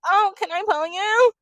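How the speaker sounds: very high, loud put-on squeal; mock chirpy interruption. Contestant interrupting a chat to grab him, mock chirpy. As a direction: butt in with an exaggerated high voice. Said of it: "mid-conversation, they're all, like, having a conversation. She's like".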